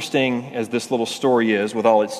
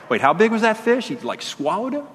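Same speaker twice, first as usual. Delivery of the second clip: put-on amazed child; 10 semitones higher than usual. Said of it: "'cause it's like".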